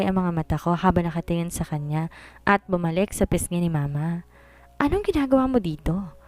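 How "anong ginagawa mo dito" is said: angry question. A narrator's reading. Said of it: "Galit na tanong ko sa kanya".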